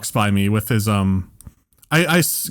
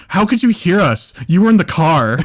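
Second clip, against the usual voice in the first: put-on indignant girlfriend; 4 semitones higher, 3 dB louder than usual. Girlfriend argues back, acted out.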